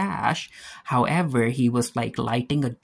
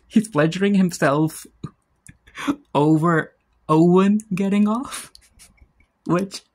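louder, laughing through the punchline; 5 semitones higher, 4 dB louder than usual. Real, not acted. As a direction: crack up while saying it. Laughing at own joke.

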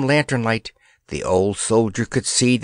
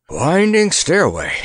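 higher and louder, delighted; joyful puffing; 6 semitones higher, 4 dB louder than usual. A narrator's reading. Old soldier finding the way out, joyful. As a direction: puff it out with joy. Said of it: "puffed the old soldier joyfully".

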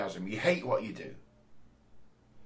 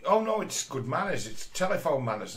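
lekko udawany, uprzejmy głos telefoniczny; fałszywy głos telefoniczny; 3 semitones higher than usual. Retold or imitated. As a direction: imitate her put-on phone manners, only lightly. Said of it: "she'll put on this fake voice".

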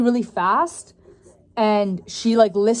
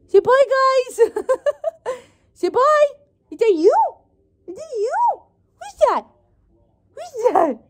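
dog voice; 14 semitones higher than usual. Real, not acted. Owner squealing goodbye with her puppy to the viewers. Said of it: "my dog voice is just hilarious".

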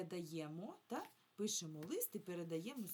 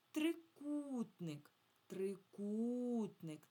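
"Трикутник" slowly, with a long stressed у; 4 semitones higher, 4 dB louder, much slower than usual. Shown as a demonstration. Teacher helping children find the stress, long у in "Трикутник". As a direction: draw out the у in "Трикутник". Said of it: "Наголос падає на «у»".

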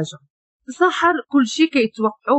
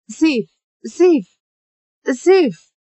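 crying out his name; 4 semitones higher, much slower than usual. A narrator's reading. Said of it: "كتجري وكتبكي".

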